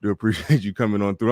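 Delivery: panting between phrases after rushing back; words pushed out on short breaths. Real, not acted. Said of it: "I'm out of breath".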